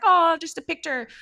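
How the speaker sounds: loud, high-pitched imitated wheedle; mock coaxing. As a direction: imitate someone pushing for a small favour. Retold stranger coaxing for photo.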